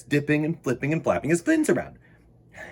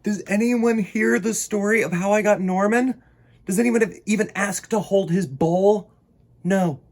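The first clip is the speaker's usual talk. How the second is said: indignant; 6 semitones higher, 6 dB louder than usual. Acted. Indignant narration, nobody cares.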